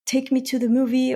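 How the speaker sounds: lightly voiced child begging; a hint of an eager little kid; mild childish pleading; kid asking. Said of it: "a kid comes to you and say".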